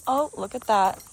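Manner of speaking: high sing-song voice for the dog. Real, not acted. Owner coaxing her dog to rest, high baby talk. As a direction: coo up high at the pet.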